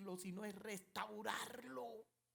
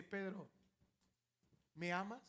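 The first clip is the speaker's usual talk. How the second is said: gentle voice; 2 semitones lower than usual. Acted. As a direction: ask him gently. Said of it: "una voz dulce".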